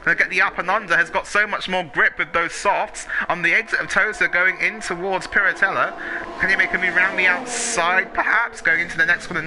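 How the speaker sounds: excited. Real, not acted. Live overtake call.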